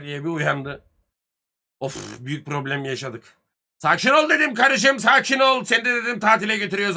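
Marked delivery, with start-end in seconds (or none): 3.8-7.0 retold loud plea. Telling wife to calm down.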